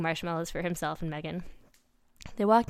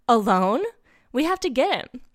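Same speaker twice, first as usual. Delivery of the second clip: alarmed; 5 semitones higher, 8 dB louder than usual. Acted. Urgent alarm about Boaz.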